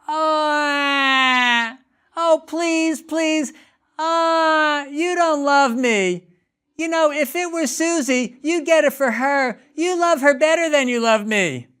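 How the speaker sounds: put-on very high, wailing kid voice; child wailing at the parent over a refused lollipop; mock crying child. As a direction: whimper that you don't love me. Parent imitates child crying, accusing.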